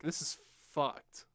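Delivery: slow, drawn-out dismay; resigned dismay. Acted. Player realizing he's outmatched by stronger orcs, resigned. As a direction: let the doom land slowly, word by word.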